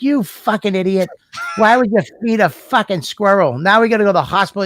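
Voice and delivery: furious mother. Retold or imitated. Mother scolding son over squirrel bite, mock angry. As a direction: mimic a mother yelling at her kid. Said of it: "I've never seen her that mad".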